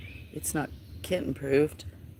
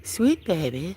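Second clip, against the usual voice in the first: cooing; 4 dB louder than usual. Real, not acted. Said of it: "cooing to kitten".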